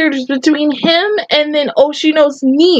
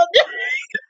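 very high, softer squealed cry; 7 dB quieter than usual. Real, not acted. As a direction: let out a squeaky wail. Upset reaction to the scene.

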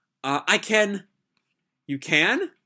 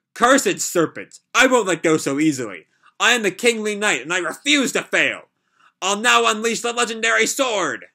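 knight's cry; 5 semitones higher, 3 dB louder than usual. Acted. Reading knight's battle cry.

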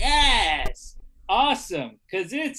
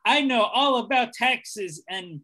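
put-on terrible American accent. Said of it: "trying a terrible monotone American accent".

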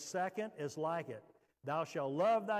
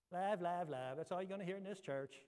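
mimicking the complainer's words; mock the complaint, rushing the last part; lightly mocking imitation; 3 dB quieter than usual. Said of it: "so I was mocking him".

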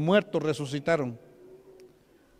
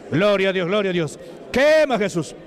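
forceful revival praise; fervent cry; 2 semitones higher, 4 dB louder than usual. Real, not acted. Preacher calling Jesus to burn the demon, fervent cry. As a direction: call it out to heaven.

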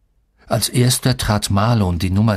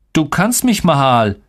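cross, higher-pitched outburst; scolding; 6 semitones higher, 3 dB louder than usual. A narrator's reading. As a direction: tell them off crossly. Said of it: "schimpfte ich". (schimpfend, trotzig)

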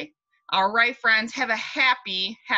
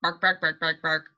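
dog bark; 3 semitones lower than usual. Shown as a demonstration. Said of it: "What about a white dog?".

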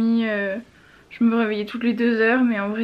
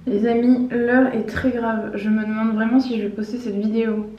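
swollen mouth, hard to talk; after wisdom teeth. Real, not acted. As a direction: talk through a swollen jaw. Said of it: "J'arrive vraiment pas à parler".

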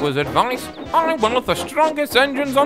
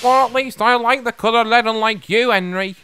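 higher, louder, indignant comeback; angry retort; 6 semitones higher, 5 dB louder than usual. A narrator's reading. James retorts to teasing Henry, angry. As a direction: snap back in a raised voice. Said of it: "James just wheeshed steam angrily".

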